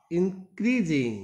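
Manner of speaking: "increasing" very slowly, second syllable CREAS stressed. Shown as a demonstration. Teacher reads the verb sentence, stress on CREAS in increasing. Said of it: "क्रीज पर focus किया जाएगा".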